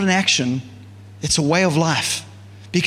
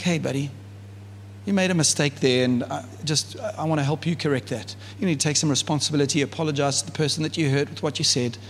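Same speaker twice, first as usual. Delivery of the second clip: softer, lower, tender correction; God kindly correcting a friend who messed up, gentle and soft; 4 semitones lower, 5 dB quieter than usual. Retold or imitated. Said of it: "And he does it gently".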